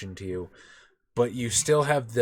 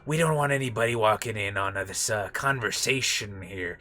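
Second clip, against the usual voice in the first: loud then hushed shopkeeper; lightly voiced scheming alien; half-hearted Watto voice; 4 dB louder than usual. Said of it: "don't wanna do the full nasal Watto voice".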